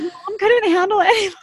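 lightly voiced daughter tattling; imitating daughter. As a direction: tattle like a kid, teasing. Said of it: "She's like".

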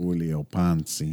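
"Julio Ponce" said slowly in a Mexican accent. Shown as a demonstration. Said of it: "you gotta put the Mexican spin on it".

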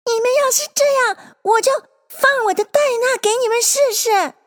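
high, sustained threatening call; straining shout. A narrator's reading. Alice threatening the animals with Dinah, shouting. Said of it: "紧着力量嚷道".

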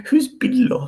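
mocking a Greek accent, high and loud; high, loud Greek-accented question. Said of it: "you said it with a Greek accent".

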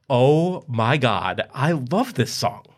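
high, slow gushing over a song; gushing fan voice. Acted. Husband gushing about the song on the radio, lightly swooning.

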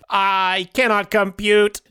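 robot voice. Acted. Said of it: "Robot Tim".

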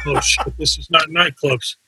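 hushed, breathy "Oh, shit" under his breath; a soft horrified aside to himself; panicked whisper. Retold or imitated.

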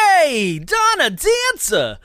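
high, loud, drawn-out celebrity impression; Mark Wahlberg. Calling out to Donna Dancer, rough Wahlberg impression. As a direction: holler it in a hammed-up tough-guy impression. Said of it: "it's kinda Mark Wahlberg again".

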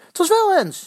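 high, loud insisting on wel; shouting. A narrator's reading. Fans in a shouting match over handball, loud. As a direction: shout back hard, stressing wel.

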